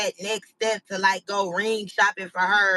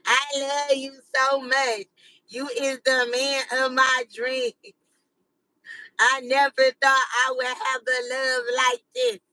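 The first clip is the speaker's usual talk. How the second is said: mock romantic speech. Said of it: "I give you, like, a whole speech".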